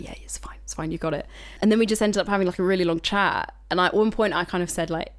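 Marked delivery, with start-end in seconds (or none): 0.0-1.3 casual reassurance. Retold or imitated. Examiner casually waves the test through.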